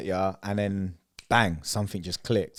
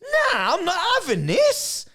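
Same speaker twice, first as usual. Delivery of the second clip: retold shout; 4 dB louder, slower than usual. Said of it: "It's like".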